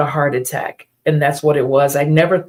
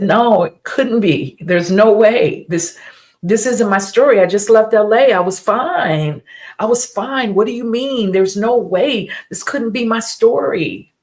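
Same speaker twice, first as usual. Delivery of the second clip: stunned disbelief; 5 semitones higher than usual. Retold or imitated. To the doctors, refusing the diagnosis, stunned higher disbelief. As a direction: voice climbing in shocked denial.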